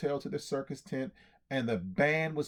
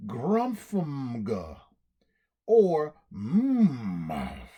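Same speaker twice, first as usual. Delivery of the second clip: mumbled made-up name; 5 dB louder, much slower than usual. Acted. Lion mangles his own name.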